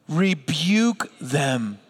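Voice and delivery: "Rebuke" drawn out slowly, falling; slow call-and-response. Shown as a demonstration. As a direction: lead the crowd word by word. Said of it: "Everybody say the next two words".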